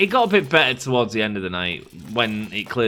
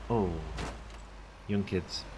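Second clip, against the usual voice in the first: ordinary talk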